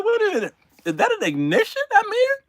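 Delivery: high, fast, laughing alarm; alarmed passenger. Retold or imitated. Passenger hearing the engine start, alarmed and high. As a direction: panic a little through a laugh.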